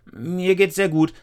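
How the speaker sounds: high, loud hurried reassurance; hasty girl. Acted. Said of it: "Aber Lisa sagte nur schnell".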